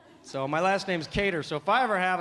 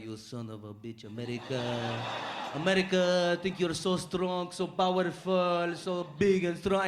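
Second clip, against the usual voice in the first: put-on angry Arab-accented cousin ranting; Arab accent, drawn-out rant; slower than usual. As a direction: curse America in an Arab accent. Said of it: "all bitching and moaning about America".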